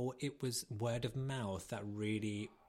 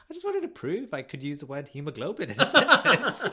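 proud protest; 5 semitones higher, 14 dB louder than usual. Retold or imitated. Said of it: "I was like".

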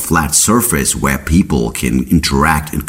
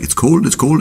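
high, whiny mammoth shivering in ice; mammoth freezing in ice; 10 semitones higher than usual. Retold or imitated. Frozen mammoth complaining it's cold, high whiny voice. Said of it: "They were just like".

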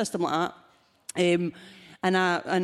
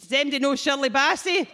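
A singer's voice; 5 semitones higher than usual. Retold or imitated. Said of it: "doing a singer impersonation".

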